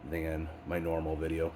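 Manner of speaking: blocked nose from a head cold; stuffy nose. Real, not acted. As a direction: talk through a stuffy nose. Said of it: "I apologize if I sound a little stuffy".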